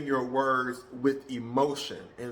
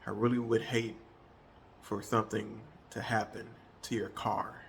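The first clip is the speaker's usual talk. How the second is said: threatening tone; 5 semitones lower, 7 dB quieter than usual. Shown as a demonstration. Demonstrating a threatening tone to a careless coworker. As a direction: lower and much softer, menacing. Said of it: "that threatening, lowering your voice".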